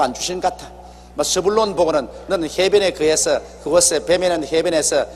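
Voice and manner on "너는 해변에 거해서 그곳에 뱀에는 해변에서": Jacob blessing Zebulun. Retold or imitated. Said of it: "이렇게 말씀하셨습니다".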